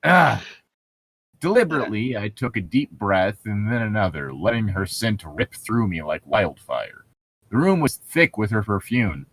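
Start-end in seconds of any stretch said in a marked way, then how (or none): 1.4-9.3 lightly hammed-up novel reading; story narration. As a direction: read it like a brooding romance novel. Reads novel passage aloud.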